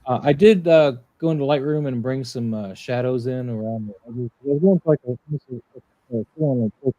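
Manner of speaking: muffled, as if through a wall. Real, not acted. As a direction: voice dull and covered, muffled mic. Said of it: "You're very muffled".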